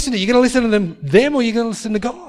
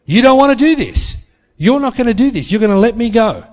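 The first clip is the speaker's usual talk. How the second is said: higher and louder, firmly telling him he won't do it; retold woman standing her ground, raised voice; insistent raised voice; 3 semitones higher, 5 dB louder than usual. Hostage insists to her captor.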